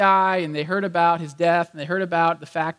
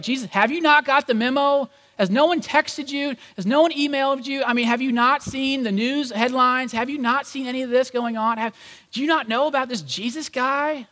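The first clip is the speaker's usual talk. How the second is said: incredulous disbelief; 6 semitones higher than usual. Retold or imitated. Cleopas incredulous at stranger's ignorance.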